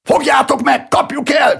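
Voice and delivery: high, loud call to the mob; rallying shout. A narrator's reading. Someone urging the crowd after the presenter, shouting high. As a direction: yell to set everyone chasing him. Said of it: "kiáltott valaki".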